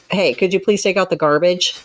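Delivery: curt, loaded asking; pointed request. Shown as a demonstration. A counselor shows a chore request with hidden reproach, pointed. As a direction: ask with an edge of blame. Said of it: "seems to imply something more".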